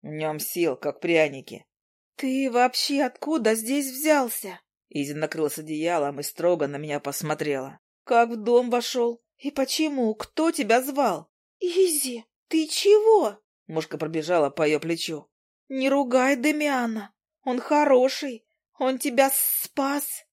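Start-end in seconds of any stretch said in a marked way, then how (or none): 2.2-11.3 Izi's stern questions. Acted. Izi questioning Demian strictly, in a higher voice. 11.6-20.2 very high squeaky insect voice; a tiny creature pleading for her friend; Zhuzha the fly. Acted. Zhuzha defending Demian to Izi, squeaky and high.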